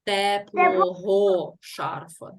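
Теплого шарфа drawn out slowly, leaning on the ending ого; slow dictation. Shown as a demonstration. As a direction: stretch Теплого шарфа so the class hears the case ending. Teacher stresses the ending.

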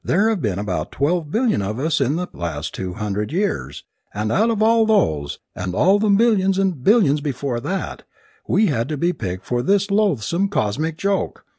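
high-pitched, distraught tirade; raving. A narrator's reading. Alice protests being picked for a cosmic joke, raving. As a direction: wail in outrage at the injustice. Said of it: "Alice raved".

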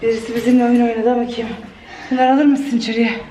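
panting after rushing around; breathless, catching her breath. Real, not acted. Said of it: "nefes nefese kaldım".

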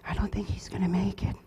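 whispered imitation of doubting nurses; hushed doubt. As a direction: drop to a near-whisper, quoting the naysayers. Nurses' doubting talk retold in undertone.

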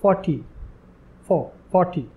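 फ़ोर्टी with a clear फो; fo sound demo. Shown as a demonstration. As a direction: isolate फो, then say फ़ोर्टी. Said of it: "उसका जो pronunciation होगा".

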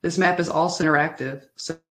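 choppy audio cutting in and out; words dropping out like a bad connection; corrupted glitchy audio. Real, not acted. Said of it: "your audio is cutting out for me".

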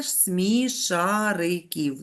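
drawn-out corrected word; slow teacher correction. Shown as a demonstration. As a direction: model the right form slowly. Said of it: "моя молодша сестричка любить дивитися".

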